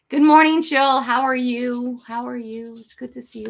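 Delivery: sudden loud cheerful welcome to a viewer; excited greeting. Real, not acted. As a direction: greet the viewer with a burst of joy.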